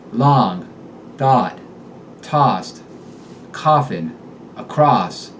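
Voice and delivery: "Long" and "coffin" with a clipped short o instead of aw; Boston aw as short o. Shown as a demonstration. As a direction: say "tossed" and "across" with a short o, Boston style. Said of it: "Aw becomes the short O".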